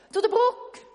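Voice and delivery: loud, high shout. Acted. Weaver shouting to swim to the bridge, loud shout. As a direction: call everyone to the bridge. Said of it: "ruft der Weber".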